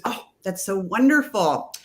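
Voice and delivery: slow, drawn-out gushing, imitating a sweet clerk; imitated sweetness. Dispensary girl answers customer with trouble sleeping, sweetly gushing. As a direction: play the oh-so-sweet salesgirl, slowly. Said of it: "The girl was so sweet".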